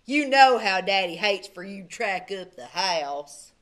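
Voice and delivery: loud scolding brother; bossy brother. A narrator's reading. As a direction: nag him about Daddy's rules. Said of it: "added Milton".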